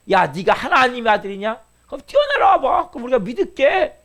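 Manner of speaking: taunting dare, pitch leaping up high; mocking accusers. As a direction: imitate hecklers goading him to prove it. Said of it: "그렇게 예수님을 비난하는 사람들". (비난하며 조롱하는 사람들 흉내)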